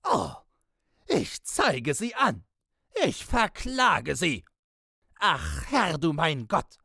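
high-pitched, frenzied bellow; enraged roar, far above normal pitch; screaming and cursing. A narrator's reading. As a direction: scold at the top of your voice, barely human. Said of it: "Man konnte es ein Gebrüll heißen".

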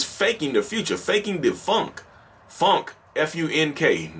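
slow, drawn-out southern drawl. Real, not acted. Spelling a word for listeners in a southern drawl. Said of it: "This is my southern drawl".

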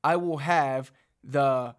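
ordinary talk, nothing marked

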